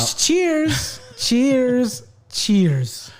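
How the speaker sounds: high, drawn-out cheers; loud celebratory toast; calling a toast. Real, not acted. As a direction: ring each one out long, coming down in pitch. Toasting out loud mid-story.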